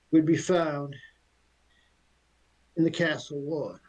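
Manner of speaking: haughty talking horse. Acted. The aware horse answers the elf's questions, lightly haughty. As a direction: look down your nose at the elf.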